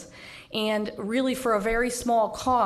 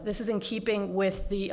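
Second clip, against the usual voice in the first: pushing words out while short of breath. Real, not acted. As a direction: still short of breath, catching air. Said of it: "excuse me, a little short of breath".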